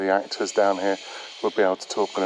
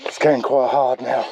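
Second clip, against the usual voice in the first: out of breath, a breathless laugh; puffing hard while climbing stairs; heavy breathing; 3 semitones higher than usual. Real, not acted. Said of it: "You can probably hear me breathing now".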